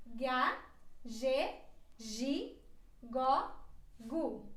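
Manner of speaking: ga with a hard g, ge and gi said with a zh sound; syllable drill. Shown as a demonstration. Teacher drills the g syllables for learners. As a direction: drill each g syllable separately. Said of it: "ela se pronuncia assim".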